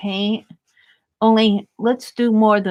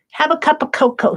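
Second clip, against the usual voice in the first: snowman's voice; 6 semitones higher, faster than usual. Pretend. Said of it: "he's saying".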